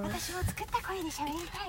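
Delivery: made-up voice. Shown as a demonstration.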